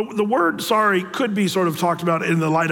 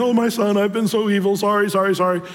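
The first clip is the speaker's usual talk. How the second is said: lightly tearful repeated sorry; a hint of a sobbing king; half-hearted wailing apology; mock weeping; 2 semitones higher than usual. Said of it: "weeping and saying".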